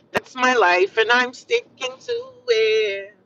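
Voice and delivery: playful drawl rising high at the end; playful catchphrase. Real, not acted. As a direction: start level, then stretch the ending way up high.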